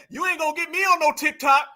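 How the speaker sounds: mocking her. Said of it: "She said".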